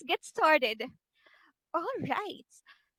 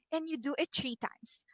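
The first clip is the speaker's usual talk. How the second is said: whisper; 9 dB quieter than usual. Real, not acted. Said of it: "unvoiced whisper".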